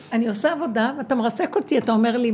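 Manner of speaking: a touch of an aggrieved complaint; complaining. Retold or imitated. Woman protesting to the voice in her vision, mildly heated.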